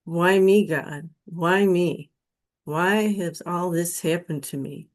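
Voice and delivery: retold plea to God, rising to a mild mock yell; pleading prayer. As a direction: beg God with rising frustration, half re-enacted. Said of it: "I started pleading and praying".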